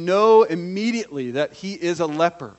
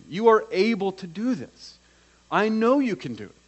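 higher-pitched, emphatic certainty; acted, raised-pitch conviction; confident assertion; 5 semitones higher than usual. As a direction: insist on it without any doubt. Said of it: "he doesn't doubt Jesus' ability".

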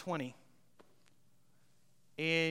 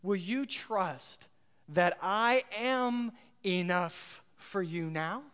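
gentle voice of God; slower than usual. Acted. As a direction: plead tenderly as God. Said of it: "and he says".

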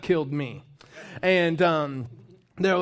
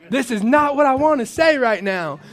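laughing disbelief; 9 semitones higher, 11 dB louder than usual. Retold or imitated. Retelling surprise at own words.

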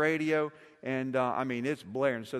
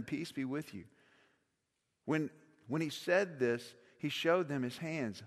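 scripture reading. Acted. Reads the gospel passage aloud.

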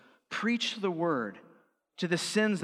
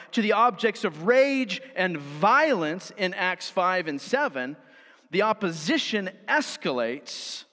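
higher-pitched, driving pulpit reading; emphatic article reading; 4 semitones higher, 4 dB louder than usual. Real, not acted. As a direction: read the quotation out with mounting conviction. Reads article aloud with force.

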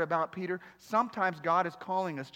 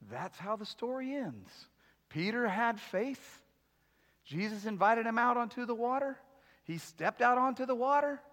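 mock sermon ending; 5 semitones higher than usual. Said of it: "If it were me, I would invite the band up".

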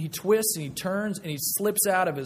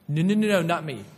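hasty panicked denial; 5 dB louder than usual. Retold or imitated. Peter panics, denying to the girl.

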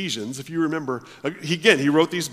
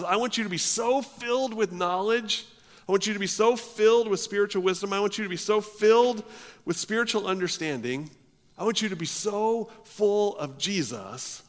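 higher, urgent preaching build; fervent plea; 6 semitones higher than usual. Acted. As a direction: plead it like a passionate apostle. Preacher voicing Paul's fervent wish.

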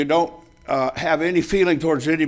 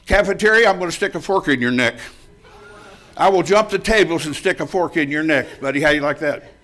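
retold threat; 3 dB louder than usual. Young sailor threatening the barracks bully, loud mock fury. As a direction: threaten him like a sailor ready to fight.

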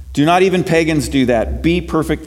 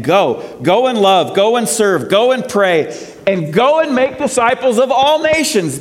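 rising preaching call; 8 semitones higher than usual. Acted. Closing charge to the congregation.

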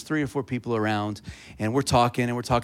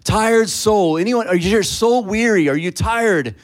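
carnival barker shout; 8 semitones higher, 6 dB louder than usual. Retold or imitated. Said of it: "I'm just like a carnival barker".

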